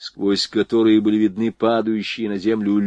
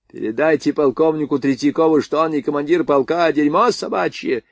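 sudden furious shout, pitched higher; angry shout; 6 semitones higher than usual. Acted. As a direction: boil over and yell at him. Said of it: "крикнул Звонарёву сразу вскипевший Фок".

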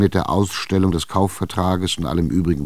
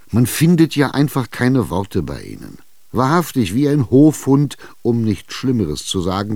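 corner her, push for an answer; Chichikov insisting; 3 semitones higher, 3 dB louder than usual. Acted. Tschitschikow schimpft. (Tschitschikow drängt ungeduldig, höher und lauter)

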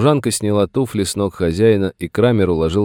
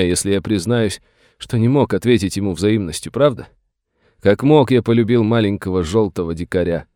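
higher, self-pitying theatrical tale; reminiscing old master; 6 semitones higher, 3 dB louder than usual. A narrator's reading. Master tells the sheriff about the boy he raised, reminiscing. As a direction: recount it with grand, rueful feeling.

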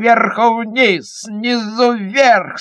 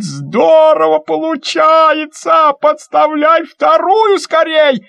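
higher, slow, eager calling; excited shout; 8 semitones higher, 3 dB louder, slower than usual. Acted. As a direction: call out in delight. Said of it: "Мишка кричит".

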